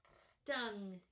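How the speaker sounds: slow, careful "Stung is the word"; slow dictation. Shown as a demonstration. Teacher dictating a spelling word to pupils, slow and clear. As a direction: dictate "Stung" slowly for children to write. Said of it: "teacher dictates word slowly".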